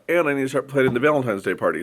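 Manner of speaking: ordinary delivery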